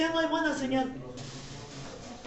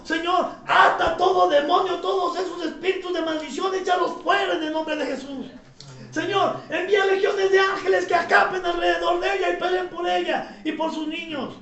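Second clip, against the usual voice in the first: retold fervent prayer, forceful delivery; re-enacted commanding prayer; crying out to God. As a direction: plead urgently with God in a preacher's raised voice. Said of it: "yo estuve clamando".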